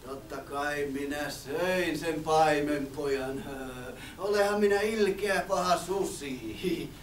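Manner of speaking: slow, low, sly wolf voice. Acted. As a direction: coax the boy, drawing it out. Wolf boasts slowly.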